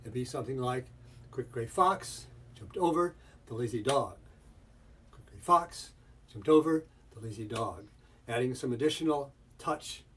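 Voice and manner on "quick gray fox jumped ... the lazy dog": FOX, OVER and DOG stressed, most weight on the key words; sentence stress. Shown as a demonstration. Teacher showing where stress falls, "fox", "over", "dog" stressed. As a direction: hit FOX and OVER, land squarely on DOG. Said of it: "get the sense of where the sentence stress is".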